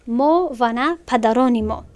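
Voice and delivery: ما و نه پدران ما read slowly, each word apart; slow, careful translation. Shown as a demonstration. Teacher slowly translating verse for the class. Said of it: "teacher translates verse slowly".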